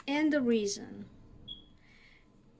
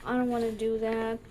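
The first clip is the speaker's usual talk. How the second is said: mock whine; 2 semitones lower than usual. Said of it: "it looks maybe like a hassle, like".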